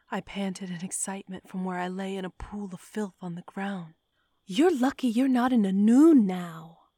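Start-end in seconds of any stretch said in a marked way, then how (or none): 4.4-6.9 high, loud scolding; chided. A narrator's reading. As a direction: scold her sharply. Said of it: "Bryn chided".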